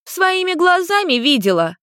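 put-on high child voice, insistent; little girl yelling from behind the sofa; shouting girl. A narrator's reading. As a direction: insist like a tattling kid. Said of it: "выкрикнула Люся".

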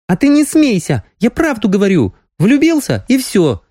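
put-on young girl, indignant.

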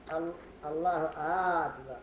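أكبر begun with a long drawn hamza, as آكبر; lengthened hamza of akbar. Shown as a demonstration. Teacher mimics the error of stretching أكبر's hamza. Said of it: "ومنهم من يمد همزة أكبر".

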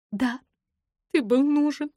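crying out to him; sobbing. A narrator's reading. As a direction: sob the words out, voice breaking. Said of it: "рыдаю я".

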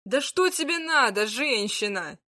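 genuinely can't understand her; sincerely baffled. Acted. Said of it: "искренне поразился Змеяр".

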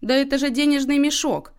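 high-pitched excited discovery; exclaiming. A narrator's reading. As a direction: cry out the lucky find. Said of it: "воскликнул Иннокентий". (восклицая, с восторгом)

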